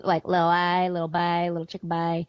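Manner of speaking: invented twin language, lightly voiced; a hint of Jodie Foster in character. Shown as a demonstration. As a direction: imitate a film character's private language. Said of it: "Jodie Foster too, a little bit".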